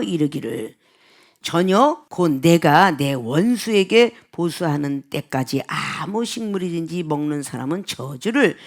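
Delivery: measured, slow formal recitation, settling low; scripture reading. Acted. Preacher reading the verse to the congregation, slow solemn recitation. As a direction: read the verse out deliberately, drawing out phrase endings.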